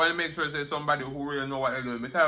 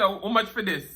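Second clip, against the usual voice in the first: switching to Patois; 4 semitones higher than usual. Retold or imitated. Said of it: "I changed up on him".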